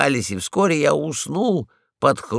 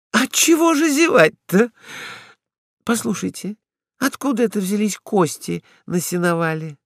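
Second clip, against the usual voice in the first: higher, innocent wide-eyed asking; naive question; 7 semitones higher than usual. Acted. Ragulya asks Polkan about the bones, naively. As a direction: play dumb about the bones. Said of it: "наивно спросила она".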